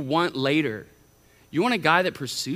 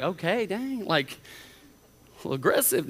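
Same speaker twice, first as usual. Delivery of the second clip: mock taken aback; 4 dB quieter, slower than usual. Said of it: "No, I'm kidding".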